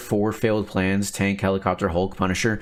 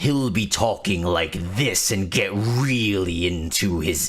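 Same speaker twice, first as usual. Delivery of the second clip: imitating a YouTuber. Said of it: "he's like".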